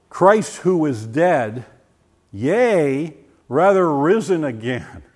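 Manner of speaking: slow, solemn King James reading; old minister reading Romans aloud; reading scripture. Retold or imitated. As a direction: read it like an old preacher, slowly. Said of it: "started reading Romans eight".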